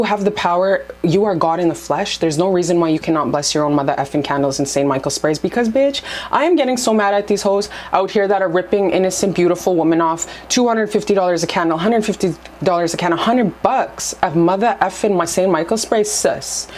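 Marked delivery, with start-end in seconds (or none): 5.4-16.7 higher, heated rant against scammers; ranting anger. Real, not acted. Vlogger ranting at candle scammers, angry. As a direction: pitch it up and vent the outrage. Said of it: "it's really getting me so angry".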